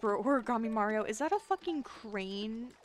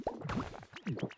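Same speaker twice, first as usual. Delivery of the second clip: drawn-out whisper, lower; slow whispered repeat; 7 semitones lower, 6 dB quieter, much slower than usual. Real, not acted. Streamer to herself, a slow whispered put that back. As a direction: breathe it out slowly.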